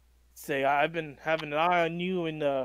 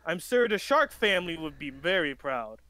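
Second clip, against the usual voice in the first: pompous vain hero. Acted. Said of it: "as he begins to speak".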